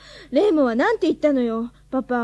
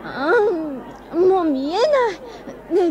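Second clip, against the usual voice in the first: drawn-out, very slow disappointed complaint; frustrated whine; much slower than usual. Acted. Girl too short to see the crowd, slow frustrated whine. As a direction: stretch it out, let the disappointment sag.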